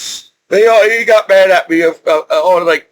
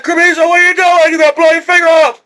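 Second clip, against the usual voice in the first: hammed-up drill sergeant tirade; imitating a yelling drill sergeant; 9 semitones higher, faster than usual. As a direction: play the sergeant catching a recruit's dangerous mistake. Drill sergeant scolding him at range.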